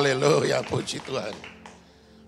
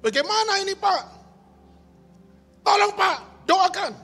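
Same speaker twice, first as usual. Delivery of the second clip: high, louder, pleading father voice; desperate pleading; 10 semitones higher, 5 dB louder than usual. Retold or imitated. Father whose daughter is missing begging the pastor, high and pleading. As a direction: beg the pastor for help, rising in panic.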